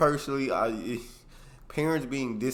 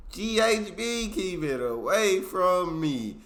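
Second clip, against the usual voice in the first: louder, higher, slower warning, "G H B" punched hard; emphatic warning; 6 semitones higher, 5 dB louder, slower than usual. Shown as a demonstration. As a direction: say it like a stern warning to everyone.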